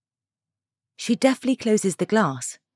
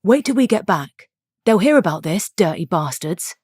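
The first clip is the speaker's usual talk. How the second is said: louder, angry threat, slowing on the last words; tight anger; 4 dB louder than usual. Acted. Husband fuming about the dirty villa, loud and angry. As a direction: spit out the threat in a rising temper. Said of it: "Daniel looks angry, and this reflects in his tightened tone".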